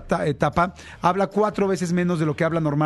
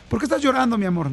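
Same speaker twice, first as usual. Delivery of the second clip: parent asking; 5 semitones higher than usual. Retold or imitated. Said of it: "Entonces le preguntas".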